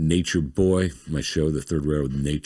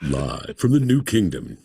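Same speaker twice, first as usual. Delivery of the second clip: slow, drawn-out intro announcer read; a touch of the slow announcer; show intro voice; slower than usual. Acted. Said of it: "voice of the O B D M's intro".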